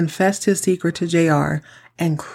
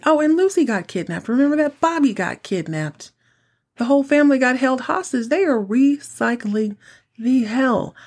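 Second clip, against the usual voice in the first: incredulous; 6 semitones higher than usual. Real, not acted. Listing recycled kidnappings.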